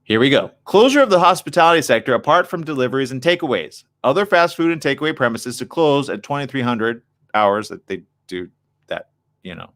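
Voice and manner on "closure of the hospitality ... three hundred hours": reading aloud. Real, not acted. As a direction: read the article out, slightly raised voice.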